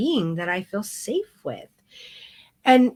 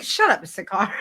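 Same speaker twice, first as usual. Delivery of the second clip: laughing shut up. Retold or imitated. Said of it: "I'm like".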